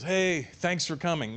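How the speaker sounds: lightly voiced laid-back host; easygoing unaccented prince. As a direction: greet guests casually, stretching the hey. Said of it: "he doesn't sound like how you're thinking".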